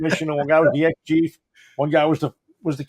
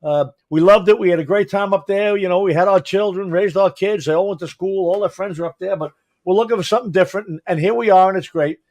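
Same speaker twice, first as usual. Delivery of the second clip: quoting the friend; 3 semitones higher than usual. Retold or imitated. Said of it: "She was like".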